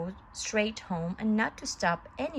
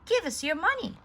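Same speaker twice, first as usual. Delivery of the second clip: high, loud robber threat; menacing demand; 9 semitones higher, 4 dB louder, faster than usual. A narrator's reading. Disguised robbers demanding Pinocchio's money, loud threat. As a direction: bark it like a thug. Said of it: "they demanded".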